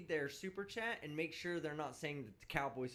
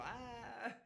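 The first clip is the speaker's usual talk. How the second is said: mock quiet gasp; 4 semitones higher, 5 dB quieter than usual. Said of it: "They go".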